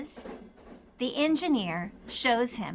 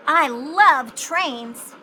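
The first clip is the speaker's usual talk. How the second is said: put-on eager boy; 3 semitones higher, 8 dB louder, much slower than usual. A narrator's reading. Pete's happy exclamation.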